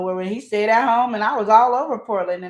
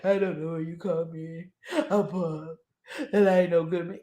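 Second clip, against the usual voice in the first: lower, softer, hammed-up sobbing; fake-weep like a pitiful man; mocking a man blubbering; mock crying man; 4 semitones lower, 5 dB quieter than usual.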